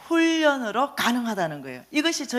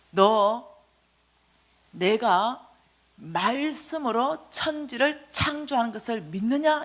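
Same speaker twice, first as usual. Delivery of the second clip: voice of the Lord; slower than usual. Retold or imitated. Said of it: "주님이 저에게 묻기 시작했습니다".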